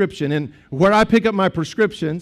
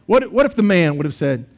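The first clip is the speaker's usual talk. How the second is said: normal talking voice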